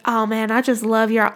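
imitated Southern lady, softly; Southern US accent. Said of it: "they talk like that".

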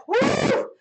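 mock party shout for Friday; excited whoop. Celebrating Friday, shouting woo.

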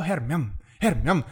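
"Hermione" repeated as Spanish "hermión"; Spanish-style pronunciation. Retold or imitated. Friend mocking Spain's dubbing, "Hermione" said as two-syllable "hermión". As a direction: stress the end of "Hermione", her-MION. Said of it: "Cuando ellos pronuncian".

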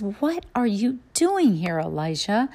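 hint of God's voice, high and questioning. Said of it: "God comes to him and he says".

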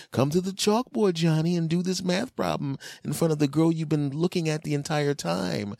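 high, bossy teacher calling Johnny up. Acted. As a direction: summon the kid like a stern teacher. Teacher calling kid to board.

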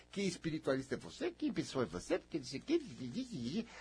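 hushed mimicry of a critic; muttered mock reproach. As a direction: mumble the accusations dismissively, trailing off. Mimics people's reproaches, trailing off.

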